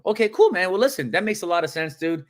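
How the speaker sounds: upbeat, quick agreement; sounding excited. Acted. Agent answering a rejection on the phone, mildly excited. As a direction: take the no brightly, pitch lifted. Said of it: "can you guys please sound excited".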